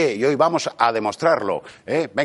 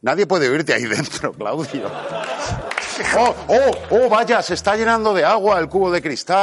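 gloating villain; 6 semitones higher than usual. Acted. Villain gloating over trapped victim.

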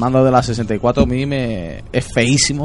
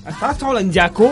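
sexy voice; 9 semitones higher than usual. Acted. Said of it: "tiene que ser así sexual".

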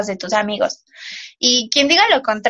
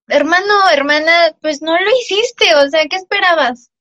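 exasperated retort; 4 semitones higher, 4 dB louder than usual. Retold or imitated. Exasperated retort to indignant teammates.

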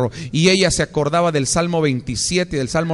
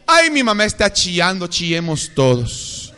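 laughing, whiny chillemos todos; mock the family crying along; teasing laugh at a crying family; mock whine laughing; 2 semitones higher than usual. Mocking a codependent family.

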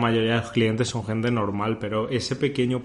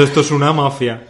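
mock shout; 2 semitones higher, 5 dB louder than usual.

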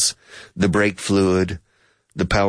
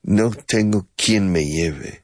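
slow repeat; slower than usual. Shown as a demonstration. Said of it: "Curiosa forma de hablar".

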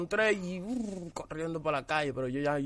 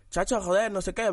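put-on Spanish accent; 4 semitones higher than usual. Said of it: "con el acento español de".

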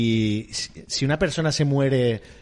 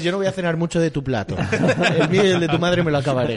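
laughing impression; faster than usual. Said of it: "Igual es".

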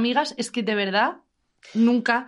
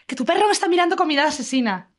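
crazy lady; 4 semitones higher than usual. Retold or imitated. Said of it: "una señora como loca".

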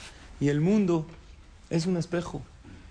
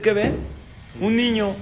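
surprised reveal; 6 semitones higher, 5 dB louder than usual. A narrator's reading. Child finds mirror, surprise.

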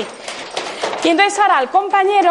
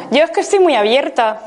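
open laughing. Shown as a demonstration. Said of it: "cerrada y así".

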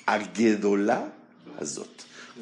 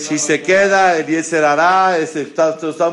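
emphatic; 6 semitones higher, 8 dB louder than usual. Real, not acted. Teacher stresses key point.

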